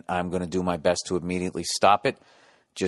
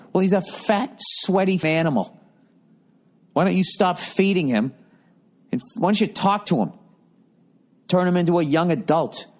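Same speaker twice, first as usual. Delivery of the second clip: imagined comeback; 6 semitones higher than usual. Pretend. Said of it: "Can't say any of that".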